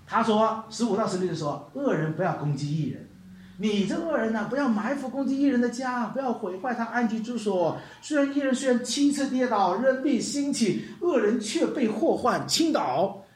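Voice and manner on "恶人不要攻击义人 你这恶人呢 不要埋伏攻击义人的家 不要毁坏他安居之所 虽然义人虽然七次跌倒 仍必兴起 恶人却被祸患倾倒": scripture reading. Acted. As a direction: read the verses with weight. Reads scripture aloud.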